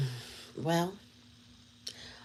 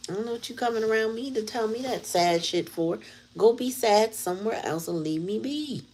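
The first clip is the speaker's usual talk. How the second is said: higher, dismissive imagined reply; imagined fed-up brush-off, pitched higher; exasperated retort; 6 semitones higher than usual. Retold or imitated. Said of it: "but I'd be like".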